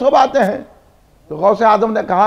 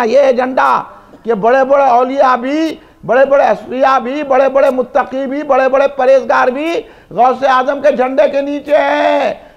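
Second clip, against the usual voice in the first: preaching. Real, not acted. Preaches on the banner.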